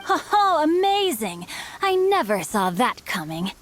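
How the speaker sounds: high, exaggerated oh-amazing; gasping delight with a wry edge; mock amazement. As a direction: play up the astonishment, half teasing. Reacting to a surprise twist.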